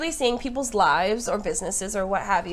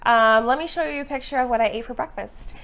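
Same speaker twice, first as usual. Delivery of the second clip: lightly mocked Valley girl chatter; a hint of Valley girl in a mock show-and-tell; 3 semitones higher than usual. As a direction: imitate an oversharing Valley girl, rattling on faster as it builds. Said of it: "sounding like a Valley girl".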